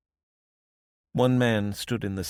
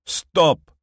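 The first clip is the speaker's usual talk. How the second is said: loud high command; calling out; 10 semitones higher, 12 dB louder than usual. A narrator's reading. Dimitri orders Ruth to stop, loud shout. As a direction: bark it as a warning. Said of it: "Dimitri called out".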